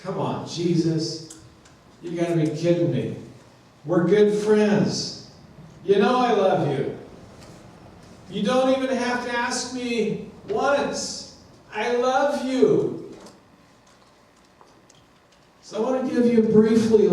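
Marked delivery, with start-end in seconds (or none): 0.0-11.4 mildly exasperated protest; agitated Simon Peter. Acted. Preacher voicing Peter answering Jesus's third question, mildly agitated. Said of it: "getting more agitated, you can hear it in his voice". 11.7-13.1 higher, drawn-out insistent protest; agitated Simon Peter. Acted. Peter answering Jesus's repeated question, agitated insistence. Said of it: "getting more agitated".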